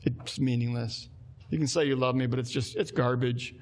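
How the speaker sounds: a low contemptuous mutter of people fed up with God; dismissive scoff. Retold or imitated. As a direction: drop the voice and sneer it off. Israelites quoted dismissing God.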